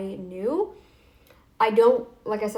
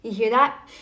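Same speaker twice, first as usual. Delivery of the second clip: nose sound; 5 dB louder than usual. Real, not acted. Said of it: "my normal sound on my nose".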